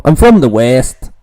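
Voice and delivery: light mock American accent on I'm from the West; a hint of American twang, quoting the missionary. Quoting a Mormon missionary to viewers, light American accent. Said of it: "That was my American accent".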